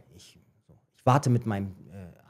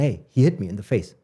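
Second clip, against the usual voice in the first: rising, louder English complaint; complaining to coach; 3 dB louder than usual. Retold or imitated. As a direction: demand the coach act, getting louder. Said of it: "ich sag so zum Trainer".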